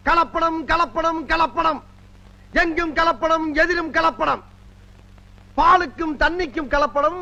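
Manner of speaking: grand stage speech to the crowd; political oration. Acted. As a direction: orate like a party leader. (மேடைப் பேச்சு பாணி)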